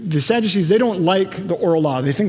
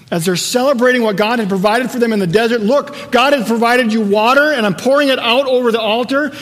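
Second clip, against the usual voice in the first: raised, emphatic preacher's delivery; impassioned preaching; 3 semitones higher, 4 dB louder than usual. Real, not acted. Preacher painting the festival scene for listeners, impassioned. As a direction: preach it out with building force.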